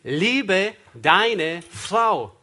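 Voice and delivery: very slow, every word drawn out; slow weighty decree; solemn command. Acted. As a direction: echo the command one word at a time. Interpreter echoes slow command.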